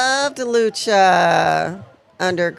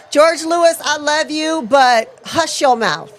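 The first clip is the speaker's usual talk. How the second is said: playful scolding; 7 semitones higher than usual. Acted.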